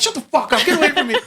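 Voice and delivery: high, loud shout to get away; furious shout. Retold or imitated. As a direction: yell him off in a rage. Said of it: "I was so angry".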